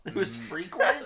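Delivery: slow, loud, giggling words; laughing. Real, not acted. Friend confessing a school story, laughing hard. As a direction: laugh through the line.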